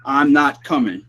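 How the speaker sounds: slow, drawn-out echo of the spirit's words; slow mock spirit voice; slowed EVP imitation. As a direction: stretch it out slowly like the recording. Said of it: "It said".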